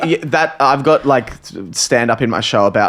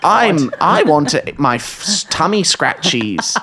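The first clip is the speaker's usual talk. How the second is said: cartoon dog; 4 semitones higher, slower than usual. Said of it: "I had to do the voice of a dog".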